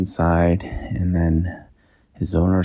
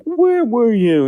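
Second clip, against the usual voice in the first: high, louder, slow demand; stern inventor; 14 semitones higher, 5 dB louder, slower than usual. Acted. Inventor confronting the raccoon in the shed, high stern demand.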